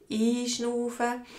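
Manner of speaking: slow, drawn-out, with an audible breath; breathing-exercise demo. Shown as a demonstration. Teacher showing learners how to breathe in, slow breathing demo. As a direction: draw the word out to guide a breath.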